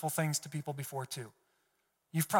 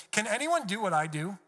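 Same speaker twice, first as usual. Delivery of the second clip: higher-pitched sarcastic challenge; 4 semitones higher than usual. Acted. God paraphrased, challenging Job, sarcastic. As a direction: ask it as a mocking dare. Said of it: "God's getting sarcastic here".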